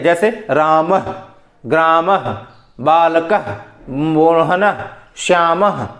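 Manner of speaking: रामः and ग्रामः said slowly, each ending in a throaty breathed h; visarga endings. Shown as a demonstration. Teacher demonstrates the visarga ending to students. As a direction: stretch out रामः with an audible final h. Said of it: "विसर्ग का उच्चारण स्थान आपका कंठ है".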